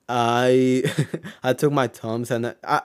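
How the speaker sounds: real laugh slipping into the telling. Real, not acted. Recounting a fight that is not funny, laughing. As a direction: start the sentence, break into a chuckle, carry on. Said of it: "I don't know why I'm laughing".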